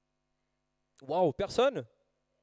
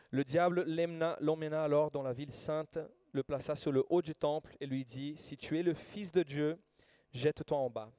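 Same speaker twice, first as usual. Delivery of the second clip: lecture biblique. Acted. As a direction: lecture solennelle de l'Écriture, posée et claire. Reads Matthew 4 aloud. (lecture solennelle de l'Évangile devant l'église)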